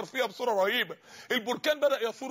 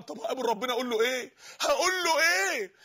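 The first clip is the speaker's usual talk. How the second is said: rising dread, voice climbing on the repeated question; a dying man's mounting panic, acted out by the preacher; terrified dying man. Dying man dreads meeting his Lord, acted terror. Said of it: "بدأ يترعب".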